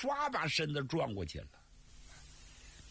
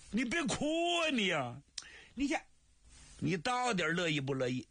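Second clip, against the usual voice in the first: put-on higher, pleading young man; flustered brother; 6 semitones higher than usual. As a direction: coax her to stop crying, at a loss. Li Jun flustered by crying sister.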